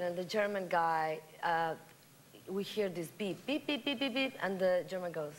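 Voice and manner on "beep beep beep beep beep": quick string of high mock beeps; imitated beeping. Comedian voicing the beep in a joke, imitated beeping. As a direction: mimic an electronic beeper.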